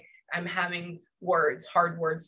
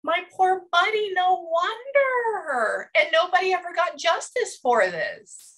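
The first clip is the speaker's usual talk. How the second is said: real crying; 11 semitones higher, 3 dB louder, slower than usual. Real, not acted. Medium moved by the boy's death.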